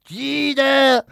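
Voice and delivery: loud mock coughs and high drawn-out calls; squawked imitation of coughing and calling; parrot mimicking sick woman. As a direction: alternate hacking with screeched calls, like a parrot. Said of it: "the parrot's going".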